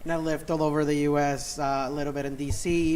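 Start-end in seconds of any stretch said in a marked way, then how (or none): none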